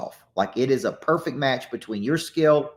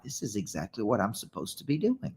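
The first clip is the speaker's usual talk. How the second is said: softer, lower recalled thought; hushed realization; 3 semitones lower, 9 dB quieter than usual. Retold or imitated. Coach recalling his first day of coaching, hushed realization. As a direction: say it quietly, as if to yourself. Voicing own past realization.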